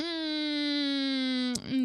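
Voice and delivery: long drawn-out, whiny hum; reluctant groan. Real, not acted. Groaning over a request.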